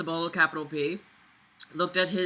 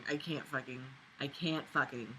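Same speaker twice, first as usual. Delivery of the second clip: "I can't fucking" falling away, softer and lower each time; trailing off, defeated; 7 semitones lower, 14 dB quieter than usual. Real, not acted. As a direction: let it die in your throat. Trails off in exasperation.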